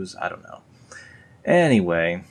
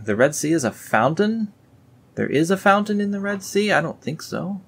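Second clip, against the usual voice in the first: much higher, disbelieving questions; incredulous; 10 semitones higher than usual. Real, not acted. Questioning the fountain verse to viewers, incredulous. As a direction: squeak it in disbelief.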